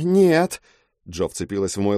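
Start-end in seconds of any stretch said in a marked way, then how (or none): 0.0-0.6 sharp loud cry, pitched higher. Acted. Jo yelling at Rei not to step forward. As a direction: yell to stop him in his tracks.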